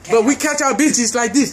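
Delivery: lightly put-on African accent. Demonstrating for friends in character, mock African accent. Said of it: "Put your African voice".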